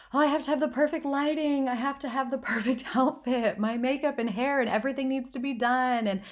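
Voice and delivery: mock her younger anxious self like a Valley girl; lightly voiced Valley girl listing perfect-live demands. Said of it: "all of a sudden talking like a Valley girl".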